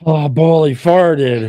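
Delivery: high mock complaint in his wife's voice; imitating his wife. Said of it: "she goes".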